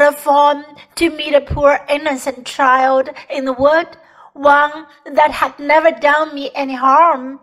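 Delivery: loud, anguished faun confession; lightly voiced remorseful faun. The faun admits to Lucy he is a kidnapper, in remorse. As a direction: confess emphatically as a storybook faun.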